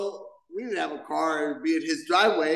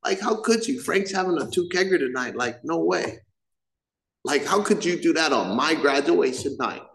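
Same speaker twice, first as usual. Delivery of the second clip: bratty whine. Retold or imitated. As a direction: act put out, like a spoiled kid. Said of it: "look at my mother in her face and be like".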